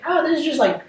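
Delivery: a lightly voiced, bemused Saul shrugging off the light; Paul's inner thought. Leader voicing Saul's guess about the light, mildly bemused. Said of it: "maybe Paul is just thinking".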